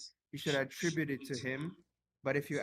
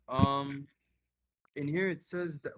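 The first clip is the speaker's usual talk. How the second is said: raised voice for a weak mic; louder, projecting to be heard; speaking louder; 6 dB louder than usual. Real, not acted. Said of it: "Can you speak louder, please?".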